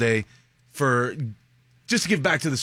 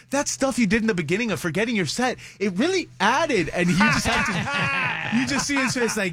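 high, animated retelling; excited; 10 semitones higher than usual. Real, not acted. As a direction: tell it with rising excitement.

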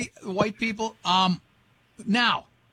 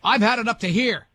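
exasperated parent; 3 semitones higher, 4 dB louder than usual. Retold or imitated. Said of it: "that's my parents".

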